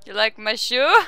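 playful mock-Russian question, lifting at the end; hammy Russian immigrant voice; Russian accent. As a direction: put on a Russian accent for fun. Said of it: "Your Russian accent is impeccable".

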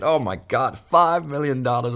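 excited. Retold or imitated. Celebrating the big deal.

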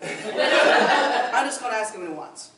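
laid-back Southern American voice with a laugh; American accent. Acted. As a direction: shrug it off like a relaxed American country pig. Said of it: "hailed from the American colonies".

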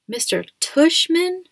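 disbelieving, drawn out; slow incredulous repeat. A narrator's reading. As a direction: say the name slowly in disbelief. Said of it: "I repeated".

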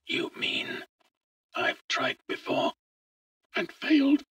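dismayed, whispery man's voice; quavering voice. A narrator's reading. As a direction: quaver as the bad news sinks in. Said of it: "The man's voice quavered".

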